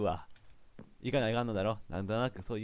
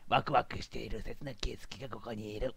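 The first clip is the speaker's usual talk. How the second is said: narrator aside; 6 dB quieter than usual. Acted. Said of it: "とか言いながら".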